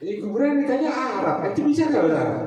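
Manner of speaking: high, teasing challenge; a lightly voiced grave questioner; mock grave question. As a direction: playfully quiz them as if in the grave.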